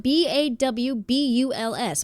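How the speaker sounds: slow letter-by-letter spelling; spelled out. Shown as a demonstration. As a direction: spell it out one letter at a time. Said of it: "She typed it out".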